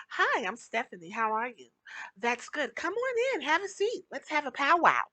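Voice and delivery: lightly lifted, polite workplace voice; sweet and accommodating, to make coworkers comfortable; code-switched office voice. Shown as a demonstration. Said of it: "talk like this in order to make everyone else feel good".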